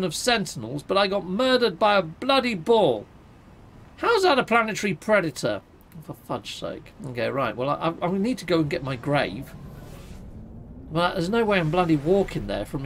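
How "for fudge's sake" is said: softer, breathy aside under the breath; whispered exasperation. Real, not acted. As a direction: mutter it to yourself, fed up. Frustrated after dying.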